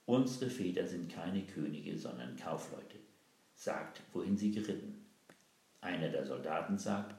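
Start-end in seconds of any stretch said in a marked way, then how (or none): 0.0-5.0 innocent. Acted. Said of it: "sagte ganz unschuldig".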